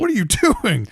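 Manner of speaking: high, loud disbelieving outburst; stunned outrage. Retold or imitated. Viewer yelling at an absurd movie twist, shocked and loud. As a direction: blurt it out like a baffled moviegoer. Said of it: "wouldn't you be like".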